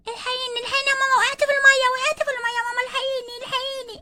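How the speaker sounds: panicked cries after falling in; child in the pool calls mama in alarm; calling for help. Acted.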